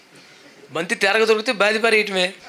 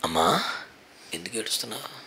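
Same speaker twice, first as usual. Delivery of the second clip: much lower and softer, tenderly; tender, gentle; 10 semitones lower, 10 dB quieter than usual. Acted. Jesus softly asking the weeping mother why she cries. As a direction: ask her softly, as if comforting her.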